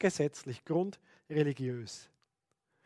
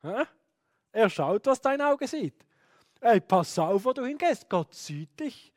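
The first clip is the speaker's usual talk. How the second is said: put-on anxious child thinking; 3 semitones higher than usual. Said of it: "plötzlich so denken".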